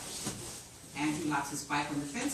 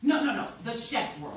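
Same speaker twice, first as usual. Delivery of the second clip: excited; 7 semitones higher, 7 dB louder than usual. Acted. Excited pitching in writers' room.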